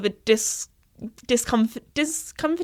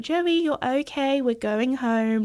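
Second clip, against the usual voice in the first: soothing; 2 semitones higher, slower than usual. Retold or imitated. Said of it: "trying to calm him down".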